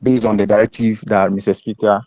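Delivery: choppy, distorted call audio; words breaking up over the line; scrambled voice. Real, not acted. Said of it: "Your line is breaking".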